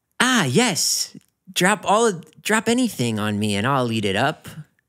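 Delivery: high-pitched talking-carpet character voice. Taking turns doing impressions, do your living room carpet impression. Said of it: "my impression of um, my living room carpet".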